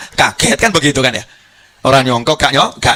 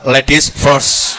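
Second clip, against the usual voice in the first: slow, laughing mock courtesy; mock gallant men; much slower than usual. Men at hell's gate pushing women ahead, mock polite. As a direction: drawl it out like a cheeky gentleman. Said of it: "kaum pria berkata".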